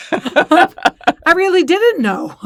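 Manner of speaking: high, loud and slow through a laugh. Real, not acted. Telling a friend why she cried, laughing. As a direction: laugh it out, helpless at yourself.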